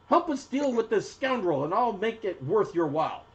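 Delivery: high-voiced kobold proprietor recruiting help; arguing kobold woman. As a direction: appeal to strangers as a proud stall owner. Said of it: "the arguing kobold woman notices you".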